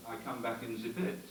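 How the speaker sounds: a hint of a crackling radio; lightly voiced radio call; crackly radio voice. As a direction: mimic a driver over the team radio. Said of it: "the voice crackled up and said".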